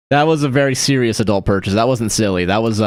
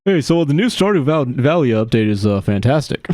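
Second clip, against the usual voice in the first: lightly put-on actor impression, starting higher; Billy Bob Thornton; 3 semitones higher than usual. Streamer whose impression slipped into another man's, lightly mimicked. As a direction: open high, then settle into a halting mimicry. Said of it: "Queer Billy Bob Thornton".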